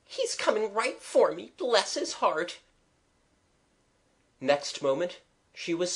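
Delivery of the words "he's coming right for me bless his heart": very high, enraptured exclaiming; delighted cry. A narrator's reading. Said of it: "cried Eliza suddenly".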